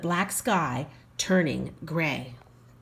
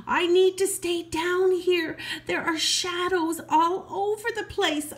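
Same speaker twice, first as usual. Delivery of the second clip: marmot voice; 12 semitones higher, 3 dB louder than usual. Acted. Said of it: "Groundhog's muffled voice barely reached".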